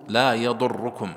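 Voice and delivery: slow "لا يضركم" with a held, doubled ر and a u before it. Shown as a demonstration. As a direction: stretch the ر of "يضركم" as a shadda with damma. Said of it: "هي مشددة". (راء مشددة مضمومة في "يضركم")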